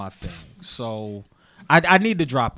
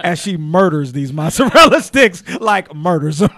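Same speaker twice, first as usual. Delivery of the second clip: laughing through the words, slow; giggling while teasing; 10 dB louder than usual. Real, not acted. Teasing the guest about her eating, laughing.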